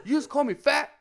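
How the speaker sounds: loud, high, offended mock yell; imitated angry shout. Imitating a soldier confronting his superior, outraged shout. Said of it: "like, so mad".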